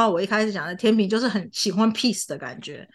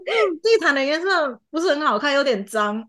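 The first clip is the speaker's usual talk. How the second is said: slightly higher, still unbothered complaint; flat mild complaint; 5 semitones higher than usual. Shown as a demonstration. Student repeats the carpet complaint for the friend without anger. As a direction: shrug it off, nothing angry about it. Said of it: "大概这样子的语调在讲".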